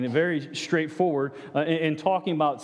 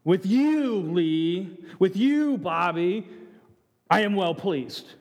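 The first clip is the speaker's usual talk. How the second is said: voice of God; slower than usual. Pretend. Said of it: "would God say".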